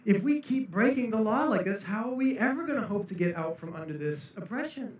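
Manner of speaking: a Pharisee worried the curse will stay; anxious Pharisee. Acted. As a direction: play a nervous Pharisee getting in line. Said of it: "the Pharisees are thinking".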